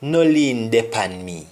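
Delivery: "No lean depan me" in a Jamaican Patois lilt; a mild Patois request. Shown as a demonstration. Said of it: "an example would say".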